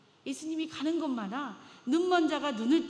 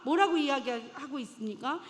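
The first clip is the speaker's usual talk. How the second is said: normal talking voice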